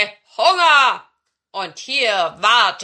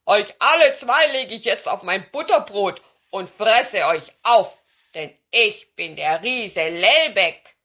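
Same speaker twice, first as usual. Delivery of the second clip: loud, threatening giant voice; booming storybook giant; roaring giant; 11 dB louder than usual. A narrator's reading. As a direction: bellow it like a hungry giant. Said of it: "brüllte er sie an".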